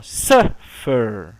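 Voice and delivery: SUFFER split, SUF punched, FER low and drawn out; stress on first syllable. Shown as a demonstration. Teacher repeating it for students, SUF stressed in SUFFER. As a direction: break SUFFER in two, hit SUF. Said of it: "A tônica está no".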